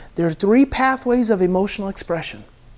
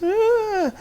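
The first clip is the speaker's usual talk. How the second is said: high mock wail of crying; a quick imitated cry. Shown as a demonstration. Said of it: "or even crying".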